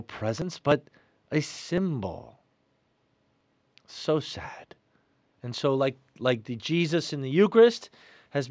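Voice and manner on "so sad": soft unvoiced whisper of regret; whispered sigh of sadness; whispered sorrow. Real, not acted. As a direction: breathe it out sadly. Sorrowful aside in homily.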